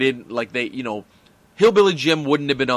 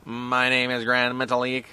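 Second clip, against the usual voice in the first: Grand Metalik voice. Retold or imitated. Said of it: "What does Grand Metalik sound like again?".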